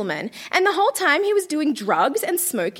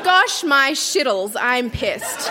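slow words breaking into laughter; laughing while reading; slower than usual. Real, not acted. Adult reading her teen diary, laughing. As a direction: read it and crack up.

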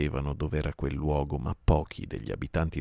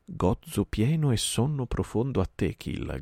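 called out; 7 semitones higher than usual. Acted. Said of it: "gridò Baghera".

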